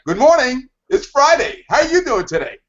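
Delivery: imitating a perky Friday coworker; chipper Friday greeting. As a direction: bounce in like it's the weekend already. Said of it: "They're all enthusiastic".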